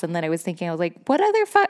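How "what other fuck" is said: high, louder cry of what other fuck; much higher exasperated shout; defiant outburst. Retold or imitated. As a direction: blurt it out in disbelief. Defiant self-talk quote.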